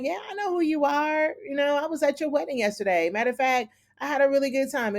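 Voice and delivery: cocky taunt voiced high; sassy June. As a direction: needle him with fake sweetness. June sassing the commander.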